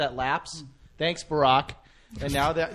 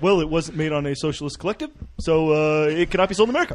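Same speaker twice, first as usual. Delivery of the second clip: lightly mimicked measured president, hesitant and softer; Barack impression; 4 semitones lower, 4 dB quieter than usual. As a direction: pause on 'uh' like an Obama parody. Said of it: "He'd be like".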